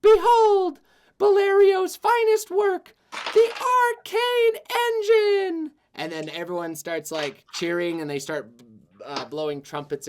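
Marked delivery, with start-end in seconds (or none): 0.0-5.7 booming king voice, high and slow; royal proclamation. Acted. King proclaiming to the gathered crowd, booming. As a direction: announce it grandly to the crowd.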